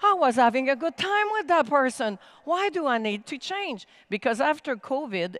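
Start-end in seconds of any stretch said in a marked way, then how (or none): 0.0-3.9 higher, louder mock complaint; whiny brain voice. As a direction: brain protesting like a sulky child. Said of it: "the brain just says".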